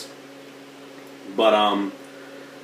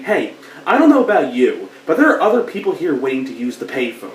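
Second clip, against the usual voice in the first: much higher, louder, mocking nag; jerk at the payphone; 6 semitones higher, 6 dB louder than usual. Jerk nagging the hero to free the payphone, mock whiny voice. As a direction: play the pushy stranger, laughing at him. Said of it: "jerk-off guy saying".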